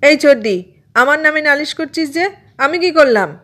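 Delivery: put-on high-pitched child objecting; indignant protest. A narrator's reading. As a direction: protest your innocence to a tattling sister. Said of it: "Bonku প্রতিবাদ করে উঠল". (প্রতিবাদী বাচ্চার গলা)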